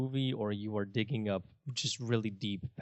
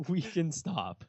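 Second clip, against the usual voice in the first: higher, laughing plea; 6 semitones higher, slower than usual. Real, not acted. Co-host begging to end the silly joke, laughing. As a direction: get it out through laughter.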